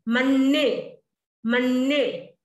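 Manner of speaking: मन्ने with a held double n; doubled n. Shown as a demonstration. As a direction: stretch the nn in मन्ने. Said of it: "slow word-by-word drill". (मन्ये को मन्ने जैसा बोलें)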